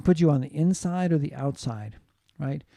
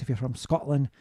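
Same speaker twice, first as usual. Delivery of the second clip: put-on Scottish accent. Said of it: "speak a little bit more like this".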